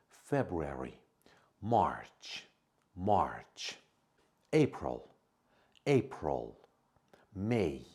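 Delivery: each month said slowly and clearly, twice; slow model pronunciation. Shown as a demonstration. A teacher says the months for students to repeat. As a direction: carefully sound out each month for learners. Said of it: "I'm gonna say them very slowly".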